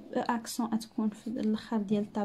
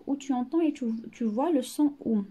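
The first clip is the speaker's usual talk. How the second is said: slow, careful classroom reading; slow dictation voice; much slower than usual. Shown as a demonstration. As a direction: spell it out slowly for the class. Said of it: "reading instruction slowly".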